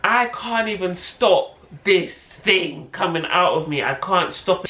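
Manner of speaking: slow, emphatic mock panic; helpless protest, stretched out word by word; retold panic. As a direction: act out mild panic in labor. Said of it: "when you're panicking".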